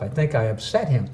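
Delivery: soft muttered to self; quiet dawning worry; quiet inner thought. Retold or imitated. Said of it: "I said to myself".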